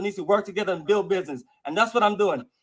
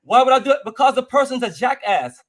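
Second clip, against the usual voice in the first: louder, snapping back at the question; angry retort; 2 semitones higher, 5 dB louder than usual. Real, not acted. Angry guest answers interviewer.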